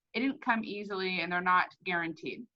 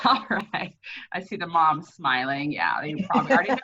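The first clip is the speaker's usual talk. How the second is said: talking with gum in mouth; words around a wad of gum; chewing gum; 5 semitones lower, 3 dB louder than usual. Real, not acted. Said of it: "I had gum in my mouth".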